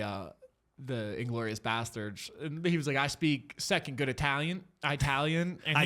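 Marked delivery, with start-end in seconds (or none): 3.0-5.6 Brad Pitt. Acted. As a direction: imitate a hopeless American posing as Italian. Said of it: "Brad Pitt in the".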